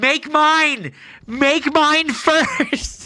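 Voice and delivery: impatient, high, drawn-out, pushy yell. Mocking someone screaming their order at a Starbucks barista: mock screaming an order. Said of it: "you're like screaming your order at the barista".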